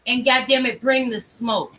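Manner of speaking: loud, fired-up challenge; rally them with heat; heated rallying cry. Real, not acted.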